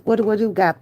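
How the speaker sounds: ordinary talk, nothing marked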